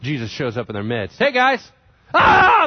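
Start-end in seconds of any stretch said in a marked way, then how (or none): 1.2-1.7 bright call, higher and louder; cheery loud greeting. Retold or imitated. Jesus greets the frightened disciples with a loud, cheery call. 2.1-2.7 high, loud startled scream; frightened scream. Retold or imitated. Disciples shriek in terror at Jesus appearing. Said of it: "They all freak out".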